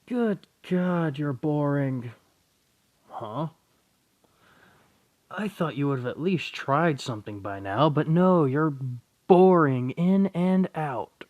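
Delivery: loud, high contemptuous sneer at his dullness; scornful taunt. Acted. Raynare sneering at the boring boy, loud and scornful. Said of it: "It's like".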